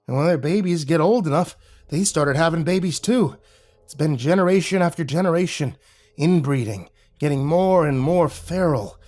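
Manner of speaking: a hint of a creepy local. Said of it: "Mister Creepy Voice explained".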